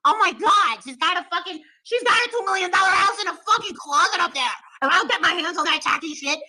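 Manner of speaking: hammed-up jealous tirade over purses; a foul-mouthed rival cursing out a viewer; Molly impression. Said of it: "How do you do impressions so good?".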